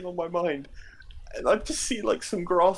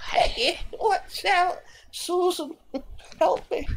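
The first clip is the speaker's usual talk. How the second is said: high, loud, laughing cry for help; panicked scream; 3 dB louder, slower than usual. Acted. Panicked calls in a game story.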